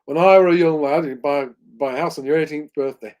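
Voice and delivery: put-on half-hearted Yorkshire old-timer voice, spoken loud; terrible northern accent. Host hams up a Yorkshire "when I were a lad" line in a northern accent. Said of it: "Sorry for my terrible northern accent".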